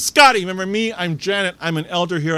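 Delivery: high, eager old-lady greeting, lightly acted. Church elder backing Scotty against the wall, eager greeting.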